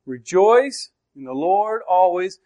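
slow, deliberate weight on "Rejoice"; emphatic. Shown as a demonstration. Preacher shows what is said first, emphatic. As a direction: draw out "Rejoice", then carry the weight through "always". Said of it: "you talk about emphasis".

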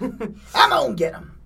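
Bowser-like devil. Acted. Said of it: "do that for the devil".

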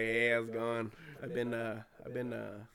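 lightly put-on cosplayer voice; changed voice. Friend joking as a trap cosplayer, lightly put-on voice. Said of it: "When did you change your voice?".

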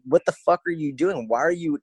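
high-pitched, incredulous challenge; exasperated scolding. Retold or imitated. Acted scolding of client.

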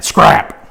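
"scrap" said low and breathy, a hissed whisper. Shown as a demonstration. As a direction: hiss out "scrap" with a sharp s. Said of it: "You gotta say it like that".

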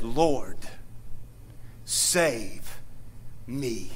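low, fading cry for rescue; lightly voiced pleading Peter; desperate plea.

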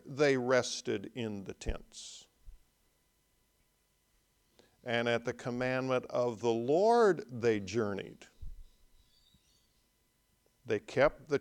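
measured, solemn Bible reading; scripture reading. Acted. Preacher reading Numbers to the congregation, solemn reading. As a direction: read it out like holy writ. Reads scripture passage aloud.

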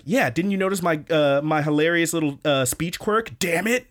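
proud of his silly tic; sidekick voice. Retold or imitated. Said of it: "he's like".

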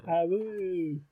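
a hammed-up little wolf howl. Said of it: "Fucking hate myself for doing that".

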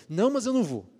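high, loud determined refusal; firm no. Pretend. Believer's firm side answering temptation, loud determined refusal. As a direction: shut the temptation down. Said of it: "brigar com você".

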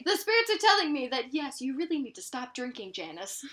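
psychic hotline. Retold or imitated. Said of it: "That is the fortune teller I will be".

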